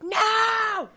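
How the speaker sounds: high shouted No; yelling inmates. Retold or imitated. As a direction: yell it like rowdy inmates. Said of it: "they're all like".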